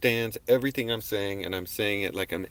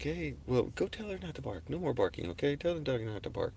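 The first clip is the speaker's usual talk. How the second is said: gentle request to the dog; 4 semitones higher, 6 dB quieter than usual. Retold or imitated. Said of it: "loving energy to them in my voice".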